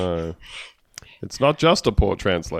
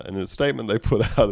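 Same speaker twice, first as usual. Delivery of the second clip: ordinary delivery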